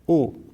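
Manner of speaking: او as a short o, one beat; short o vowel sound. Shown as a demonstration. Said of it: "و صدای ضمه". (صدای کوتاه ضمه)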